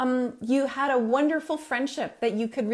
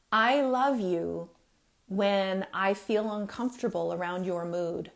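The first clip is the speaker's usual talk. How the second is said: loving reassurance; 3 semitones lower than usual. Shown as a demonstration. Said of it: "You see how much of this is work".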